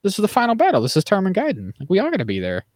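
rally them with mock passion; a hammed-up impassioned plea; impassioned speech. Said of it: "he gives this whole impassioned speech".

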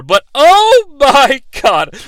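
exasperated. Real, not acted. Exasperated reaction.

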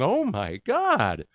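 a drawn-out, hammed-up oh my God; wife's stunned slow oh my God; mock amazed gasp. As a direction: slowly stretch out oh my God as if stunned. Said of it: "she's going".

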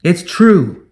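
ringing, loud public voice; poised, high-pitched declaration; high and clear. A narrator's reading. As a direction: send it clearly across a square. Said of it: "Her voice rang out across the square, high and clear".

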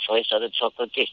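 put-on light Bowery Boys New York accent. Shown as a demonstration. Actor shows the accent adopted to fit in, New York accent. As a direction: talk like an old New York street kid.

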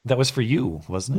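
losing voice, a bit rough; hoarse voice. Real, not acted. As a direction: speak through a worn-out, husky throat. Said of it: "I'm seriously losing my voice".

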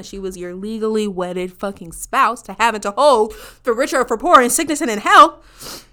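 building from plain to loud over the vows; rising outrage. Real, not acted.

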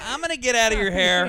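hammed-up weary old man; grandpa voice. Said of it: "they give you tired grandpa voice".

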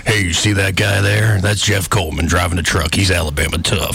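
strained ad-man voice. Retold or imitated. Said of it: "I know I sound a little constipated".

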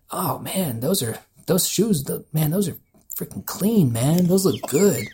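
imitating a guy hyping up clean shoes; admiring.

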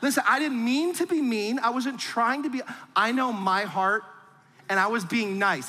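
hammed-up hurt innocence; self-justifying. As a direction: plead your own good heart, a bit hammed.

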